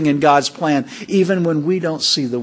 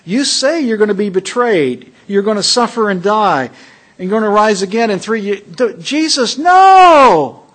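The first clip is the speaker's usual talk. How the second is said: loud, high pleading no; emphatic protest; 4 semitones higher, 6 dB louder than usual. Acted. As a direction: refuse him outright, rising to a cry. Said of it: "Peter was emphatic".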